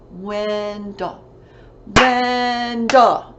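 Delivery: "Wendell" stretched into two separate beats; syllable by syllable. Shown as a demonstration. Teacher counting a pupil's syllables, "Wendell" broken in two. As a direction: clap out "Wendell", firmer the second time. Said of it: "see how many syllables he has".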